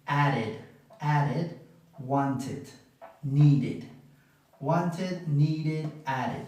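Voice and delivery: "added", "wanted", "needed" ending in "id"; a short i in the last syllable of "added", "wanted", "needed". Shown as a demonstration. Teacher drills the three verbs, -id ending on "added", "wanted", "needed". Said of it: "suena más como una I".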